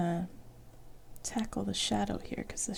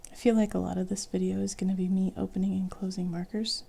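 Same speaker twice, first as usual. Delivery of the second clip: whispering. Real, not acted. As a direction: whisper it gently. Soft whispering while drawing.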